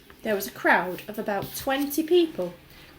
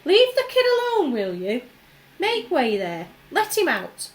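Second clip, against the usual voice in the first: loud, much higher bossy shout; commanding shout; 6 semitones higher, 7 dB louder than usual. A narrator's reading. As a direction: clear the way, firm. Shopkeeper clearing the crowd.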